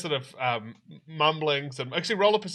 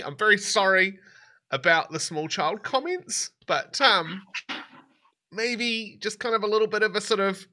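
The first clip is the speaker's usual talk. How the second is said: lightly voiced young woman, higher and pleading; polite captive woman; 4 semitones higher than usual. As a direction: ask nicely to be untied, a bit higher. GM voices woman asking untying.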